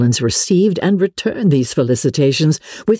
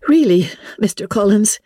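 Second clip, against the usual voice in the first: put-on higher, spirited young woman protesting; Elizabeth's raised voice cutting off a suitor, a little heated; 8 semitones higher than usual. A narrator's reading. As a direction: push back with a touch of heat. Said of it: "cried Elizabeth with some warmth".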